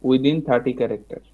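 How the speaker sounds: very slow, drawn out; slow dictation. Shown as a demonstration. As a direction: spell it out slowly to type. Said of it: "আপনারা কি চাচ্ছেন".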